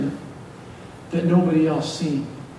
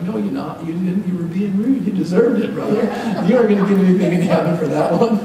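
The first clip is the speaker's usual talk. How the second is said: scolding. Retold or imitated. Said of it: "I'm like".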